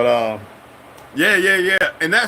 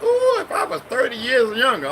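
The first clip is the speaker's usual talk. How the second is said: imitating Korean mama; 11 semitones higher than usual. Korean mama teasing the young narrator, high playful coo.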